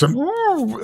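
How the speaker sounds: high, rising "ooh" of disgust; mock queasy groan. Host reacting to a guest's praise of Ben Shapiro, mock queasy. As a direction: imitate nearly throwing up with a high moan. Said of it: "I nearly vomited on the spot".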